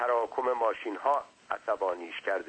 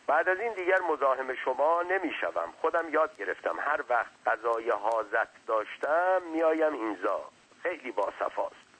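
slightly higher servant's voice; hint of a talkative underling, pitched up; lightly voiced servant; 4 semitones higher than usual. Servant chatting to his master, lightly voiced.

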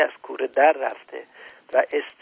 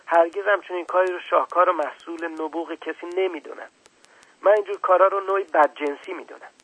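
put-on higher, puzzled child voice; a boy catching an adult out, a bit quick; little prince; 3 semitones higher than usual. Little prince challenging the scientist, higher child voice.

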